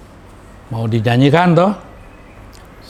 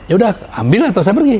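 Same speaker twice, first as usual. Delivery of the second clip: defiant ultimatum; 8 semitones higher, 4 dB louder, faster than usual. Retold or imitated. Ultimatum to the director.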